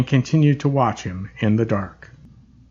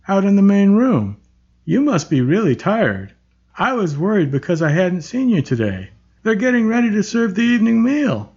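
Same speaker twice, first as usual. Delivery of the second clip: cheerful; 5 semitones higher than usual. Acted. Cheerful large man greets.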